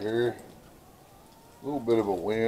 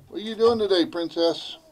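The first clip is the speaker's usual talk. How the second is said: higher-pitched, easy question to a pet; pet talk; 6 semitones higher than usual. Real, not acted. Keeper asking Princess about today, higher pet-talk voice. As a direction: chat up your bird, pitched up. Talking to a bird named Princess.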